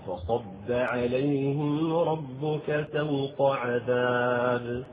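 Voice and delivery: slow tajwid recitation; slow Quranic chant. Acted. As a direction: recite the verse slowly with tajwid. Quotes Quran verse.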